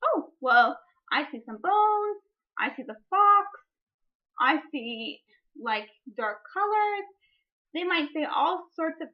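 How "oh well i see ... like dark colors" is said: a hint of an eager kid; imitating a child. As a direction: play a pupil answering eagerly. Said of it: "boys and girls might say".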